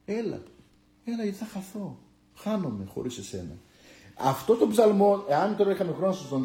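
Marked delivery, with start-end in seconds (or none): 0.0-3.6 softer, pleading, as if alone in the room; hushed pleading prayer. Pretend. A frightened believer begging God not to leave, hushed. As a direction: whisper your complaint to God, afraid. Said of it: "Πες του".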